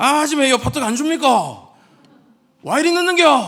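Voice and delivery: shrill, very loud Gyeongsang dialect yell. Customer calling out to restaurant staff, shouted in gyeongsang accent. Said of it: "이렇게 소리 지르는 거 ... 네이티브 발음으로 제가 전달해 드렸습니다".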